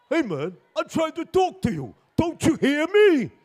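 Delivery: high, rising-to-loud yell; frustrated screaming. Acted. Driver trying to get through to the bus driver, frustrated yell. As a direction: shout to be heard, exasperated. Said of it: "why are you screaming".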